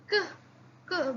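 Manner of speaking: k said alone, crisp and unvoiced; teacher drilling k; isolated sound. Shown as a demonstration. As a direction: snap out k by itself. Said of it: "we changed it to".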